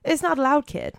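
high, loud generic American; American accent. A narrator's reading. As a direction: protest in a put-on American voice. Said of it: "generic American accent".

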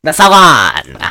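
grand movie diva drawing out the word; put-on, stretched actress delivery; Bette Davis. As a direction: do a hammed-up old Hollywood dame. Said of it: "my Betty Davis voice is my Phyllis Diller voice".

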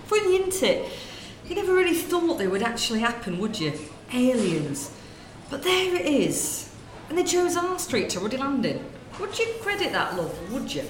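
lightly voiced gossiping northern woman, chatty; northern shop lady. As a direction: natter away like a corner-shop lady. Sketch, gossiping shopkeeper woman.

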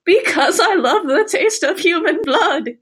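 eerie calm doll voice; sweet and unsettling like a horror doll; too calm creepy doll. Acted. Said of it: "sounds like a doll in one of the movies".

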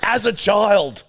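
slow, laughing outrage; laughing complaint. Retold or imitated. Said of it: "I was like".

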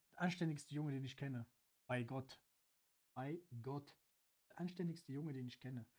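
low, soft, earnest vouching; sincere praise. Real, not acted. Vouching for Angelo as a decent lad, sincere. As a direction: swear it quietly, from the heart.

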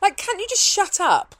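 high-pitched fed-up outburst; exasperated plea. Acted. Comedian answering moaners on Twitter, exasperated. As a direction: plead it high, falling away at the end.

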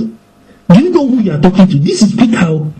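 lightly voiced boasting Peter; boastful Peter. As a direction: swagger as the rock. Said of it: "might have told Jesus".

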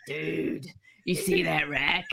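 nailing Corey's line at last; proper Corey dude. Shown as a demonstration. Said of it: "you've gotta get the dude right".

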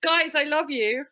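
butter up the cousins slowly; mock pleading. Pleading to South African listeners.

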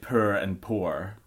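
"poor" slowly, first with oo, then oh, R sounded; two Scottish pronunciations. Shown as a demonstration. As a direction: contrast the two "poor"s, both with R. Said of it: "Three different pronunciations".

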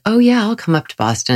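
enthusiastic. Retold or imitated. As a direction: put on an enthusiastic yes. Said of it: "sound like I was enthusiastic".

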